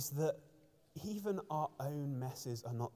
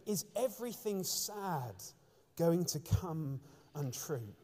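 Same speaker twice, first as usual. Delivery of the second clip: Frodo's wondering question. Retold or imitated. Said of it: "he asks this question".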